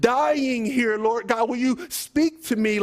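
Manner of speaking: pleading prayer, not screamed; preacher acting out a desperate prayer; acted crying out. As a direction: beg God with drawn-out key words. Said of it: "You gotta scream and let the Lord know".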